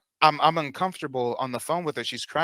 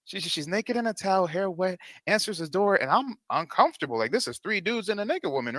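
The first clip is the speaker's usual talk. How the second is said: incredulous retelling; 5 semitones higher than usual. Retold or imitated. Retelling the awkward scene.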